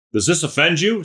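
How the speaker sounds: ratcheted up. Retold or imitated. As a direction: raise the stakes on the question. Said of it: "He ratchets it up".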